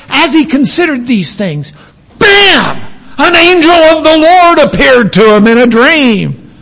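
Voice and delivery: high, loud, shouted bam then a soaring line; preacher reading Matthew with full drama; dramatic reading. Shown as a demonstration. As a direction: read it as a jaw-dropping moment. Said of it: "It's a dramatic moment".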